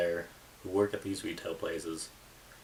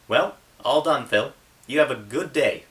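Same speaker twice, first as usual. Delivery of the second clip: much higher, bright-toned female voice for Chelsea; cheerful young woman; 7 semitones higher, 10 dB louder than usual. Acted. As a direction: lift the voice high and play a friendly cashier. Chelsea says goodbye.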